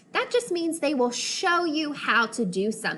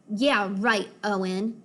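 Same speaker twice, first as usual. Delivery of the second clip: bored; 2 semitones lower than usual. Acted. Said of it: "in a bored voice".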